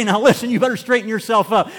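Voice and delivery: mild loving scold, a touch firmer; a fatherly telling-off with love behind it. Retold or imitated. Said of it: "He'll scold you like a loving father".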